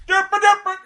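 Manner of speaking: high loud dopey yell; loud derp voice. Retold or imitated. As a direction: shout it like a goof. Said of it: "'cause he's really loud".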